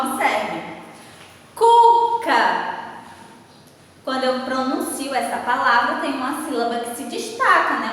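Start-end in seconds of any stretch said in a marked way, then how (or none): 1.5-2.7 Cuca with a loud, drawn-out "Cu"; stress on first syllable. Shown as a demonstration. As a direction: hit the first syllable of "Cuca" hard and hold it. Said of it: "Uma sílaba mais forte". ("Cuca" com a primeira sílaba forte e alongada)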